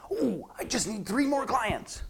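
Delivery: high, slow, drawn-out pleading; worried coach's wish. Acted. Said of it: "never again think or say these words".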